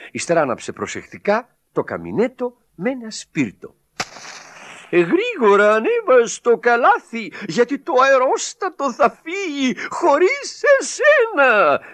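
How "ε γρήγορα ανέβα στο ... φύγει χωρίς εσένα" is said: high, loud, slow urgent call; a higher, loud warning cry; urgent shout. A narrator's reading. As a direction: yell to hurry him into the basket. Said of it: "φώναξε η κυρανιφίτσα".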